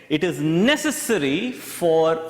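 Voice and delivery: slow, weighty "necessary"; stress on necessary. Shown as a demonstration. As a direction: lean on "necessary", drawn out. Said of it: "I'm emphasizing the word necessary".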